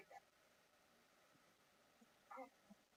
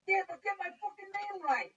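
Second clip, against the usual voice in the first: loud, high, drawn-out protest; indignant retort; 11 semitones higher, 8 dB louder, slower than usual. Retold or imitated. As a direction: demand it slowly, raising your voice. Acted retort over wrong name.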